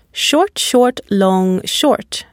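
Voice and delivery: stressed "long" as the third beat, every "short" brief; quick "Short, short", drawn-out "long", brief "short"; stress pattern demo. Shown as a demonstration. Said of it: "only one long and stressed syllable".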